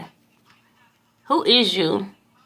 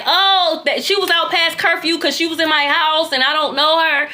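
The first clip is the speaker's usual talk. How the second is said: higher, tattling neighbor voice; nosy neighbor snitching to the government, higher; 6 semitones higher than usual. Retold or imitated. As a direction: play the snitch who tells on her. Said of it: "They a snitch".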